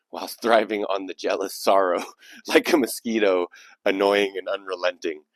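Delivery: reading through rising laughter; real laughing. Real, not acted. Host amused by the poem he is reading, laughing through it.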